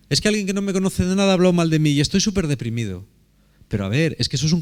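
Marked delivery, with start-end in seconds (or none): 0.1-3.0 mock whiny complaint. Mocking a self-pitying person.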